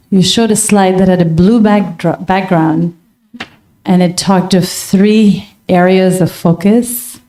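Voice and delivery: deliberate phrases with pauses between. Real, not acted. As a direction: take it slowly so it can be followed.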